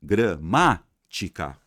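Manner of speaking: Gramática said very slowly, each syllable drawn out; dragging out Gramática for the class; stretched syllables. Shown as a demonstration. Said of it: "Última, penúltima, antepenúltima".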